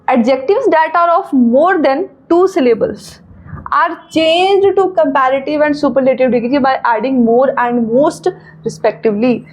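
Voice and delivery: reads the rule out slowly, word by word; slow rule reading. Shown as a demonstration. Teacher reading a rule aloud to students, slow and deliberate. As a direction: dictate the grammar rule slowly to the class.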